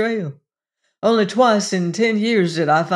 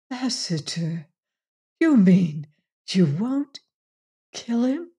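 whispered. A narrator's reading. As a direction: whisper it in disbelief. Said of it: "Jane whispered".

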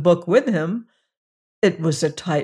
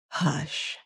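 a much softer, lower hush; modest whisper; 3 semitones lower, 9 dB quieter than usual. Acted. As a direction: shush him gently, modestly. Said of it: "whispered the hippogriff modestly".

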